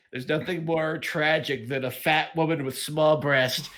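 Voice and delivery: whiny nasal voice, a bit slow. Retold or imitated. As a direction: pinch it through the nose. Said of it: "Why do you always give me nasally voices?".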